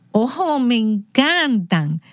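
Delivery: very slow, savoring delight. Retold or imitated. Aunt coaxing her nephew to reread, slowly savoring. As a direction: stretch it out like you're relishing every word.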